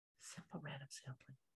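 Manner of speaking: hushed, very quiet whispered aside. Telling students the sampling options for the project, whispered very quietly. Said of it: "I'm going to say this very quietly".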